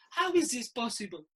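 mock outraged Italian coach, laughing through it; laughing disbelief. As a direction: play the shocked manager, half laughing. Di Canio quote with laugh.

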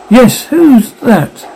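sudden alarmed question, slowed right down; startled. Acted. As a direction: jump at a noise at the door. Startled at a tap.

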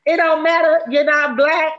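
hammed-up outraged mother; mock scolding. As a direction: scold like an indignant mom at a barbecue. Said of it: "she was like".

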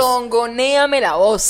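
drawn-out, swaying Venezuelan lilt; sway the voice slowly, Venezuelan-style; playful Venezuelan sing-song; tongoneo. Shown as a demonstration. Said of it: "yo le escuché el tongoneo en la voz".

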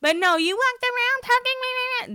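hammed-up heated rant; imitating an angry cast member mid-fight; impression of the fight. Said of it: "That is my impression of this fight".

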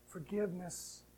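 hushed forgiveness; gentle promise. Acted. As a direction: speak it like a tender promise. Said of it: "He says to me".

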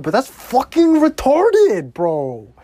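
high, loud yell; angry outburst. Real, not acted. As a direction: snap at the call. Raging at the referee's call.

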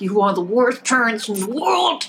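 put-on voice of a protesting kid; outraged child. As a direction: wail it like a wronged sibling. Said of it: "And you're like".

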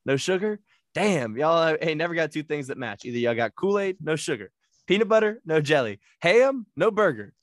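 ranting about no matching groceries, hammed up; imitating Smokey. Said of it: "Smokey goes".

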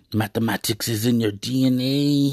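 a hint of a Mexican cholo teacher, stretching the final letter. Quoting a movie teacher he loves, in a light cholo voice. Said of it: "he said it with this little cholo voice".

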